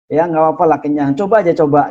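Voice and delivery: playful urging to taste the food; insisting host. Retold or imitated. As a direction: push them to try it. Insisting friend offering food.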